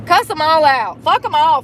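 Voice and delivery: root for him out loud; cheering him on. Real, not acted. Cheering on the singer.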